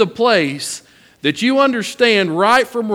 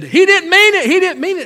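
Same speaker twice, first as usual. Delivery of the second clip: much higher, louder pleading voice; imitating the pleading wife; 11 semitones higher, 5 dB louder than usual. Wife defending little Josh to her husband, high pleading voice. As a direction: plead for the child like a protective mother.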